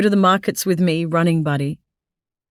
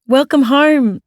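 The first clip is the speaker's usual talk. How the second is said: warm greeting; 8 semitones higher, 5 dB louder, slower than usual. Acted. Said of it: "I say again".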